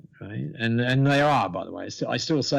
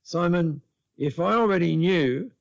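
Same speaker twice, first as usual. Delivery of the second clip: higher-pitched emphatic protest; mock exasperation; 6 semitones higher than usual. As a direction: plead your case, imitating your own exasperation. Acted protest in retold call.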